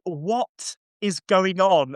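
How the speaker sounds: lightly acted sarcastic disbelief, stretched out slowly; mildly sarcastic. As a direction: imitate a sarcastic questioner. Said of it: "she's being sort of sarcastic".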